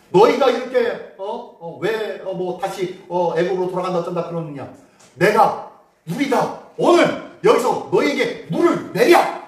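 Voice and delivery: Moses scolding the people, slow and loud; angry rebuke. Retold or imitated. Moses scolds the complaining people at the rock, angry and slow. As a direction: rebuke the grumbling crowd sharply.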